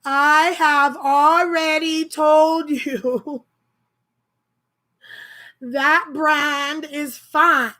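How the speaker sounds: loud, slow, mock-angry customer reading out her text; all-caps yelling. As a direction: hammer each word like a text in capitals. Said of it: "She's yelling at me in text, capitals".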